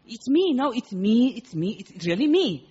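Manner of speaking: insisting caller. Retold or imitated. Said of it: "You repeat "me".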